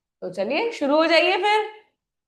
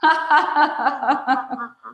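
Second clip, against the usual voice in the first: gentle laugh. Shown as a demonstration. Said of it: "पहले धीरे से हंसना है".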